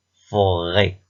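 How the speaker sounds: "Forêt" in two held beats, fo-rêt; measured "Forêt" for listening; split into syllables. Shown as a demonstration. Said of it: "repère le son qui se répète".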